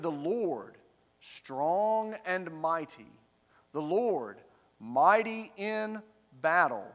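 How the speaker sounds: slow, weighty declaration building in force; emphatic proclamation. Acted. Company answers the sentries' challenge at the gate, proclaiming. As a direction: answer with measured, mounting conviction.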